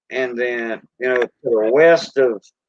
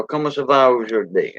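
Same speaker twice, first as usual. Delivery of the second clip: Cajun French. Shown as a demonstration. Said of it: "You know".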